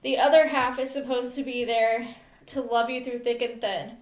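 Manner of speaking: measured poem recital in short phrases; earnest spoken verse; poem reading. Real, not acted. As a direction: read your own poem aloud, line by line. Reads own poem aloud.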